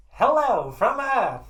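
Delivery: high, drawn-out shout from further back; still-loud hail. Acted. Repeating the alien greeting away from mic, loud shout. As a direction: call out slow and loud, stretching each word. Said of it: "And it was still loud".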